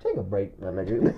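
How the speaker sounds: very low, soft retold advice; subdued intervention. Friend telling him to stop, low and subdued. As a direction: imitate a friend quietly calling a halt.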